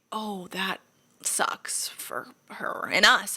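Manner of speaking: breathy hushed mock sympathy; whisper. Whispering fake sympathy about the roommate's dropped sauce. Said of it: "And I was like".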